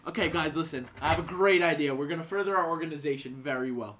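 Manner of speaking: a pompous executive pitching an idea; Leon Rose impression. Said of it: "I'll be Leon Rose".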